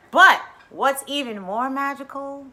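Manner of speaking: ordinary talk, nothing marked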